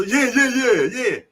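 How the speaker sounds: high, quick-fire yeses; mock eager agreement; retold eagerness. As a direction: jump at the offer. Retold eager answer to job offer.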